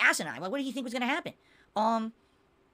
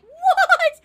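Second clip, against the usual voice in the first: incredulous laughing what; 14 dB louder than usual. Retold or imitated. Retelling disbelief at support's excuse.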